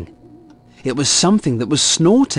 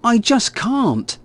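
slow, higher-pitched grumble; grumbling child; 7 semitones higher, slower than usual. A narrator's reading. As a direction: drag out a child's grumpy complaint. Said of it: "he grumbled".

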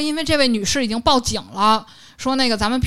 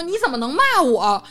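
higher-pitched imitation of an affronted opponent; mock indignant; 4 semitones higher than usual. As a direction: protest as if wronged, hammed up. Acted quarrel, opponent's indignant question.

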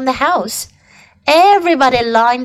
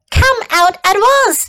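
high, sharp motherly order; Mrs. Arable crying out; 9 semitones higher, 3 dB louder than usual. A narrator's reading. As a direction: call out an urgent command, pitched up. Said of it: "cried Missus Arable".

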